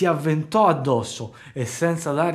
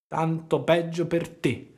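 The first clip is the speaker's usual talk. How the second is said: slow, drawn-out echo of the fox; slow mocking echo from the cat; sly cat's echo; 4 semitones higher, slower than usual. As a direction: let the cat lazily parrot the words. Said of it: "ripeté il gatto".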